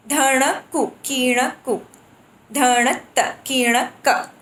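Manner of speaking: rhythmic syllable recitation; reciting bols. Shown as a demonstration. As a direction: speak the drum syllables in time. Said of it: "For example, adding suffix".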